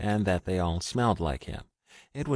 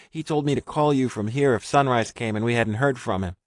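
higher, louder, fast frantic babble; rushed and frantic; 5 semitones higher, 4 dB louder than usual. A narrator's reading. Frightened Richard blurting his story to a stranger, frantic. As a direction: pour it out in a panic. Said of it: "Richard's words were rushed and frantic".

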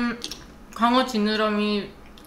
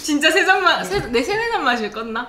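laughing tease; 5 semitones higher, 3 dB louder than usual. Real, not acted. Laughing teasing.

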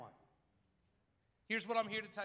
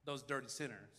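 a lower, lightly voiced protesting congregation; mock indignant listeners, lower and quieter; dismissive crowd voice; 6 semitones lower, 4 dB quieter than usual. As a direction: brush it off like offended townsfolk. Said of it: "They're like".

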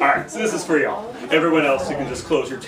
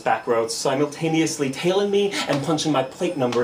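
low, measured spoken-word indictment; slam poetry; 3 semitones lower than usual. Acted. Driver blaming Officer Lowell, slam poetry. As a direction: lay out the charge deliberately in a low register. Second slam poem continues.

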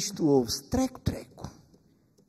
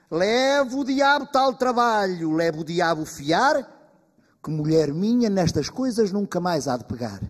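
loud oath; 4 semitones higher, 5 dB louder than usual. Acted. Husband swears off spinning.

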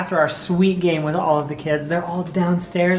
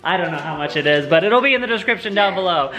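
game show host. Pretend. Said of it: "that's just my host".

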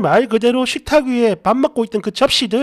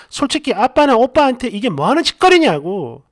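louder yelled 짓거리냐고 falling hard at the end; yelling at mom; 4 dB louder than usual. Retold or imitated. Daughter yelling at mother about dad and brother, angry yell. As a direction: throw 짓거리냐고 at her angrily. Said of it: "소리를 질렀어요".

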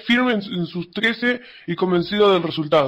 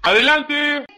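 calling out; 8 semitones higher, slower than usual. Acted. To a visitor at the door, calling out adelante. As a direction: call out adelante so the visitor hears.

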